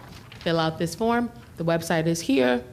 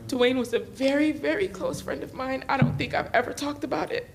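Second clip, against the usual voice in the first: voice breaking; 7 semitones higher than usual. Real, not acted. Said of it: "I'm gonna try not to cry".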